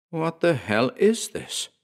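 high, slow, startled question; stunned by what they see; alarmed question. A narrator's reading. Character alarmed at strange scene.

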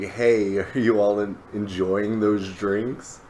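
lightly voiced suave host; smooth, debonair Kaido. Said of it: "being the smooth, debonair guy".

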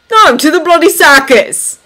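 loud, high sarcastic retort; scoffing. A narrator's reading. Thomas mocking Anna's question about the war, scoffing. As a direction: fling it back with loud scorn. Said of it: "he scoffed".

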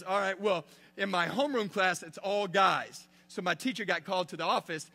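excited seventh grader telling the youth pastor about proclaiming to his class; eager kid voice. Retold or imitated. Retelling boy's classroom speech.

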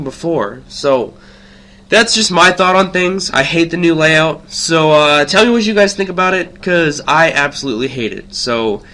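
stuffy nose from a cold. Real, not acted. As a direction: talk through a blocked nose. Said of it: "if you're wondering why I sound funny, it's because I'm... just getting over a cold".

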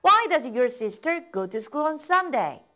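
slow, even drill pace; slow model reading. Shown as a demonstration. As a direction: say it slowly, leave room to repeat. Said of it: "따라 읽어보세요".

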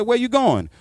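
high, startled question; alarmed question. Retold or imitated. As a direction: ask it nervously, pitch jumping up. Scared passenger asks.

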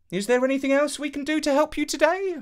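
put-on high, quick, eager young man voice; young hero voice. Avenant bowing to the princess, quick and eager. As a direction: offer help eagerly and fast.

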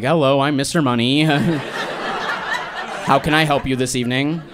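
slow, overly courteous service voice; mock polite host. Stoned guy greeting a stranger, mock polite waiter. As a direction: play the polite waiter, drawn out.

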